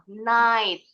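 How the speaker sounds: NIGHT said "nait", GH silent. Shown as a demonstration. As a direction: say NIGHT with no g or h sound. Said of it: "silent juga". (NIGHT dibaca "nait", GH tidak berbunyi)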